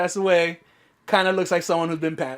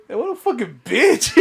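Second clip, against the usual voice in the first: laughing mock insult; 4 semitones higher than usual. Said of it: "And I was like".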